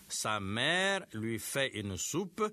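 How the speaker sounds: slow, clear model reading; slow demo reading. Shown as a demonstration. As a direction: read each word slowly for the class. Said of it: "en faisant les gestes déjà appris".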